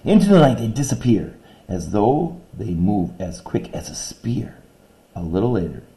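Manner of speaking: quick, lilting verse reading; poem reading. Shown as a demonstration. Teacher reading stanza three to her class, lively. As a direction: read the stanza with spring in it.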